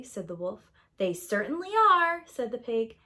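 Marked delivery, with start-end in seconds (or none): 1.0-2.2 higher, bright pig reply; a lightly voiced pig, pleased with himself; chirpy pig. A narrator's reading. Pig answers the wolf in a higher, cheerful voice.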